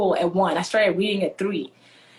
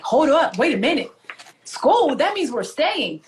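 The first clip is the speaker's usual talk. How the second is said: mock-startled, higher on "School?"; acted disbelief; 4 semitones higher, slower than usual. Child realises the family is staying for good, acted disbelief. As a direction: work it out in dismay, stretching the end.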